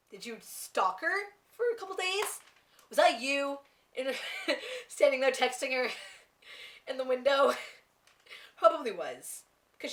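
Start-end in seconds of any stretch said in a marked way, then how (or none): 0.1-7.5 teasing question through laughs; laughing accusation. Retold or imitated. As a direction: giggle while you accuse her. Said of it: "I'm like".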